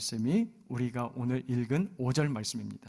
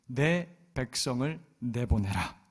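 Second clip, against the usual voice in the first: slow, weighty command to Pharaoh; bold proclamation; 3 semitones lower, slower than usual. Retold or imitated. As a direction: proclaim God's demand slowly. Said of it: "그렇게 외치고 있어요". (느리고 무게 있는 선포)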